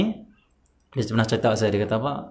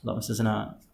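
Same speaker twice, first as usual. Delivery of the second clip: ordinary talk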